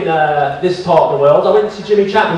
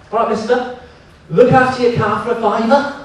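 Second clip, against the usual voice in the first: lightly put-on Liverpool accent, pitched higher; 4 semitones higher than usual. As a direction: imitate a Liverpool lad offering a favour. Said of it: "What do you think of the accent".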